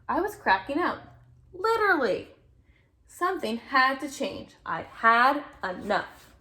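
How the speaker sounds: put-on lively read-aloud to a child; storybook reading voice; story narration. A narrator's reading. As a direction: read it like a bedtime picture book. Reading picture book aloud.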